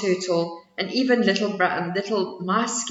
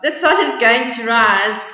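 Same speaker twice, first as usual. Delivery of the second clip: piping squirrel; 2 semitones higher, 8 dB louder than usual. Acted. Squirrel answering the bear, piping up. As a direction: pipe it up. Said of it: "piped up".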